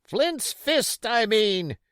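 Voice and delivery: high, loud correction; angry cry. Acted. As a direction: snap the correction out. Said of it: "he cried".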